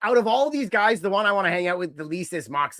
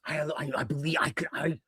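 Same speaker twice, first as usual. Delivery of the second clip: mock mystic intensity; 2 semitones higher than usual. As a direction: lay it on like a self-serious tough-guy sage. Voicing Moxley's intense philosophy.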